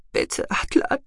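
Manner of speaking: high, whispered plea; breathless dying whisper; weak plea. Acted. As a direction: beg him faintly. Dying woman pleads.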